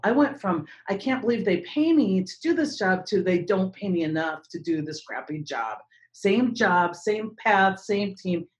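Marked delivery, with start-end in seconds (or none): 0.9-3.1 higher, lightly amazed at one's luck; retold delight. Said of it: "I went from heaven to hell". 3.2-5.8 retold grumble. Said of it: "I went from heaven to hell".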